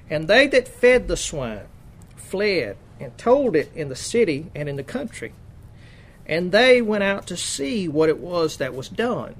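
measured, emphatic Bible reading; scripture reading. Acted. Preacher reads Mark's gospel to the congregation, emphatic scripture reading. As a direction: read out the verse in deliberate, weighted phrases.

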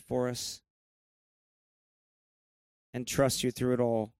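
measured prayer with long pauses; closing prayer. Real, not acted. Pastor thanking God for his people, measured closing prayer. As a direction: pray aloud in unhurried phrases, settling toward the close.

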